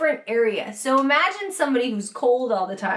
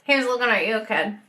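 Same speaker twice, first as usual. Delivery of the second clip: lightly imitated Boston relative; a touch of Boston in the vowels; Boston accent. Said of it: "Said all my Boston relatives".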